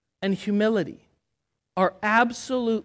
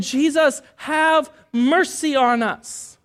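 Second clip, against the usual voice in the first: slow plea; 4 semitones higher, slower than usual. Shown as a demonstration.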